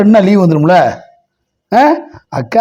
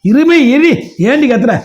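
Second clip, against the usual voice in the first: higher-pitched, exasperated telling-off; scolding; 7 semitones higher than usual. Real, not acted. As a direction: tell someone off for yelling. Parent scolds someone for yelling.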